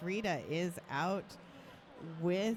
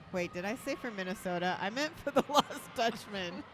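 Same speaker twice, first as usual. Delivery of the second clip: laughing at own mistake; 3 semitones higher than usual. Real, not acted.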